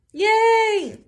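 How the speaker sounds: high cheerful yay; bright excited yay. Real, not acted. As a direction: celebrate the finished rhythm. Cheering finished rhythm.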